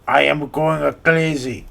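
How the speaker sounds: put-on slow Russian accent that slips Italian; "I am going crazy" drawn out, accent drifting Italian; Italian-sounding try. YouTuber's failed take sounding Italian, slow. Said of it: "I sound more Italian than Russian".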